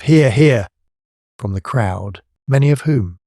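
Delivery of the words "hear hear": louder hearty approval; shouts of approval. A narrator's reading. Crowd applauding Tell's speech, shouting. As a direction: cheer the point like a rowdy audience. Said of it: "Shouts of".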